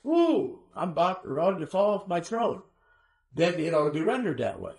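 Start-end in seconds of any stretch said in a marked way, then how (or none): 0.1-2.6 high hammed-up gasp of being won over; mock swooning. Preacher parodies the swooning-king reading, hammed-up and high. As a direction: overplay the teary convert king. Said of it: "more sarcastic than it is".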